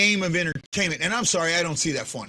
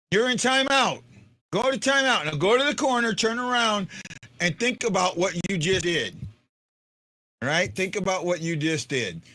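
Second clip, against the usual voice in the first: mock scolding parent; 3 semitones higher than usual. Mock scolding a chat viewer.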